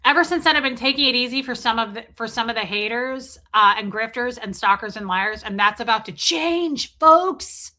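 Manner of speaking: mock tough-guy Aaron. Host mocks Aaron's threat to haters, loud bluster. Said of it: "quoting Aaron's threat".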